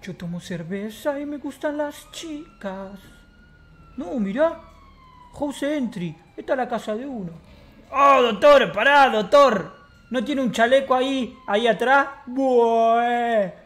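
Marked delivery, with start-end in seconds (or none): 0.0-3.0 slow, drawn-out put-on voice; soft, slow-motion character line; slow character catchphrase. 7.9-9.7 loud call to the doctor; louder call, slowing on pará. Acted. Calling out to the doctor.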